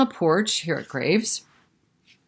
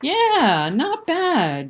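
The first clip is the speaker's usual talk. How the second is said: grudging praise; 10 semitones higher, 4 dB louder, much slower than usual. Acted. Character gives grudging praise.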